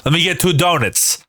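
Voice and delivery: "donuts" said as DOH-nits; East Coast pronunciation. Shown as a demonstration. Demonstrating an East Coast order, "donuts" as DOH-nits. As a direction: reduce the end of "donuts" to "nits". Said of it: "We say donits".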